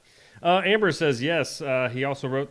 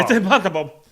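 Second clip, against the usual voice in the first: loud; 6 semitones higher, 9 dB louder than usual. Acted. Repeating the segment jingle.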